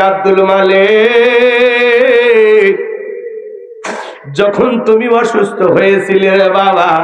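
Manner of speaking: tearful lament. Acted. Grieving mother pleading with her son, tearful chanting lament. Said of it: "কাঁদে আর বলে".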